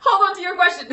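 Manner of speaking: words squeezed out through laughter; laughing. Real, not acted. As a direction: talk while cracking up. Laughing while reading a comment.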